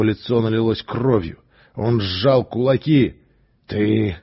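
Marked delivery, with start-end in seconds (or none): 3.7-4.2 forced out with effort. Acted. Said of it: "с трудом проговорил он".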